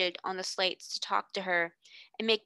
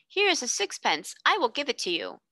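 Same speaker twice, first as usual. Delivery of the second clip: put-on benign boy; 5 semitones higher than usual. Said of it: "walked up to her benignly".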